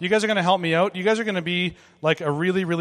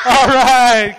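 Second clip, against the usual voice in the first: laughing; 6 semitones higher, 14 dB louder than usual. Real, not acted. After kids screamed.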